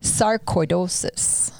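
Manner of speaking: "Sarcoidosis" said slowly as sar-koy-DOH-sis; careful pronunciation. Shown as a demonstration. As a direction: say "Sarcoidosis" syllable by syllable, stress on DOH. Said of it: "Did you say that right?".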